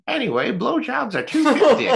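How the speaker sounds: put-on high squeaky laughing old lady; cackling granny. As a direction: cackle it out like a naughty grandma. Grandma makes shocking offer.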